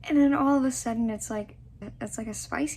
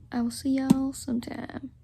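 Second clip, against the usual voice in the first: slipped into southern accent; 2 semitones higher than usual. Real, not acted. Signing off to her book besties in a light southern accent. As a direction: let a light Southern accent slip into the sign-off. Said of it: "the southern accent just came out".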